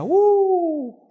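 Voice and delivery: sudden high, loud scream as the coaster plunges; drop scream. Acted. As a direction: yelp of fright. Coaster drops.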